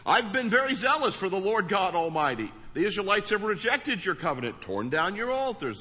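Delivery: loud, high, run-on recital; insistent rehashing of an old grievance; replayed complaint. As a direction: rattle it off like a record replaying. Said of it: "you have a tendency to replay things".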